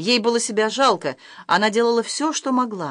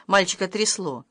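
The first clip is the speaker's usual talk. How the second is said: ordinary delivery, nothing marked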